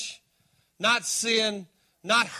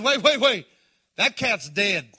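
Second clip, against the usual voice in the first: alarmed protest; 4 dB louder than usual. Acted. Martha rushing to stop Jesus.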